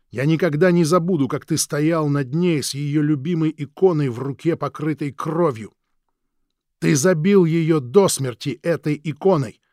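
the embittered brother hurling blame; bitter accuser. Acted. Krik's accusing voice.

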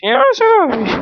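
whiny squeal of not wanting to do anything; squeaky voice. Acted. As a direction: squeak it out like a sulky kid. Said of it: "Nie mów takim piszczącym głosem".

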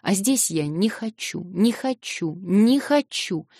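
put-on girl sobbing her refusal to stay; tearful refusal. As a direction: repeat it, hitting the last hardest.

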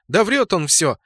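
high-pitched indignant squeal, lightly done; squealed protest. A narrator's reading. Accused clanmate denies it to her leader, squealing. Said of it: "завизжала хаоситка".

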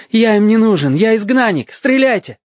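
high, reckless defiance; bitterly fearless cry. A narrator's reading. Exiled boy tells sailors to shoot, bitterly fearless. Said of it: "с горьким бесстрашием крикнул".

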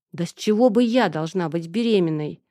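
muffled mumble into a chest; face in someone's chest. Acted. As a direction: mumble it pressed into his shirt. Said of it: "промычала я ему в грудь".

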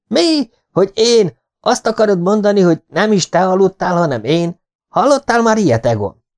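very high, loud astonished protest; indignant disbelief. Acted. Accused pupil protesting to Egon, high indignant squeal. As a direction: squeal in wounded innocence.

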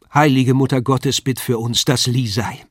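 a hint of a pious old woman in wonder; astonished landlady. The landlady exclaims in wonder at seeing Lisei, lightly voiced.

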